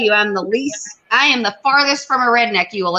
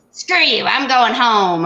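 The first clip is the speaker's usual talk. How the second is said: imitating Cartman; slower than usual. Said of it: "She had a whole voice".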